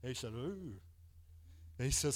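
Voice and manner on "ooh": hushed mock growl; imitated growl. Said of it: "he growled".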